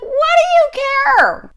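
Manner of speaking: high, loud mock retort; retold retort. Retorting to the car full of fans, mock yell. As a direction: fire it back incredulously. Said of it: "I'm like".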